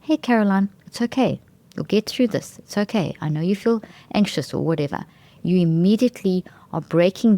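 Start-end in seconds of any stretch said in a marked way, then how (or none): 0.0-4.5 kind self-talk. Shown as a demonstration. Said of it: "and you say".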